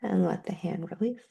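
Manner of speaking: breathy whispered cue; a soft whispered release. Acted. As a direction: let the words fall to a whisper. Whispered cue within the meditation.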